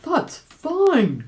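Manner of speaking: high, loud delighted cry; cried out. A narrator's reading. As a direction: jump at the offer. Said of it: "cried Uncle Wiggily".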